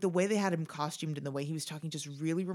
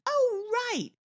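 high-pitched dawning "oh, right"; sudden realization. Retold or imitated. Podcast host who always forgets about Christian Slater, sudden realization. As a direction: act out suddenly remembering, pitched way up.

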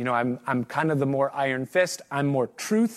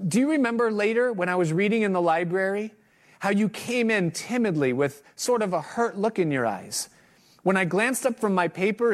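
heartfelt reading aloud. Acted. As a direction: read it like a confession to a sleeping son. Reads aloud a father's letter.

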